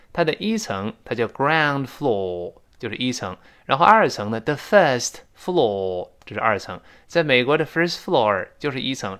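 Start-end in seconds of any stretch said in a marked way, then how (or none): 1.3-2.5 slow British "ground floor"; British accent. Shown as a demonstration. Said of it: "英联邦嘛". 4.4-6.1 slow British "first floor", no r; British English demonstration, drawn out; British accent. Shown as a demonstration. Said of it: "英联邦嘛".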